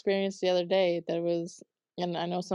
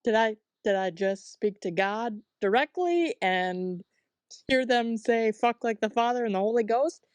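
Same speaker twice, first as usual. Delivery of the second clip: astonished double-check, pitch lifting; retold disbelief; 3 semitones higher than usual. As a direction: ask it in mock amazement, rising on GHOST. Retold disbelief at what came through.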